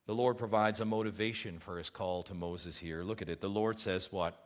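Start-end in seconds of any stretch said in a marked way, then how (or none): none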